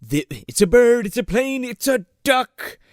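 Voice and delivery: excited acted discovery; amazed scientist impression. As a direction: build up, then stretch the last word. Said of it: "He's like".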